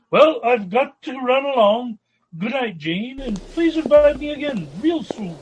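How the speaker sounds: bright, rising goodbye with a lift at the end; cheerful farewell. Acted. Richard says goodnight to Jane, cheerful and bright. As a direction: leave on a high note, cheerfully.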